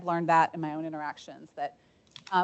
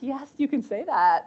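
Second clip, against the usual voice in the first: slow, higher "yes, you can", falling at the end; retold firm permission, drawn out; emphatic reassurance; 6 semitones higher, 4 dB louder than usual. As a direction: give slow, encouraging confirmation, pitched up. Reassures the surprised admin.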